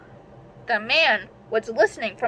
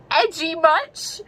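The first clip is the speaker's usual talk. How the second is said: higher, slow, dry mockery; sarcastic jab; 7 semitones higher, slower than usual. Real, not acted. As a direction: tease the edgy line slowly. Mocking her own story.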